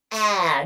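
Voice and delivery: "Ah." with the tongue stuck out; saying ahh. Shown as a demonstration. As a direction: open "Ah." sung with the tongue out. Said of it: "you can stick your tongue out and say".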